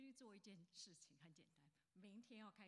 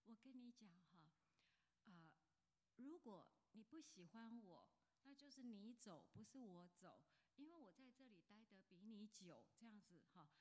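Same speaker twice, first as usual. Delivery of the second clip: polite, gentle threat. Retold or imitated. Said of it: "他很客气又很温柔".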